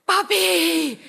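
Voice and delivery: high, long delighted squeal; excited students. Retold or imitated. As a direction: coo loudly at a cute puppy. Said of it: "the students going".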